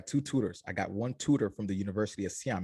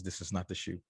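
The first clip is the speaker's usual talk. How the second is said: disappointed dad; 3 semitones lower, 8 dB quieter than usual. Retold or imitated. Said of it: "I heard the disappointment in his voice".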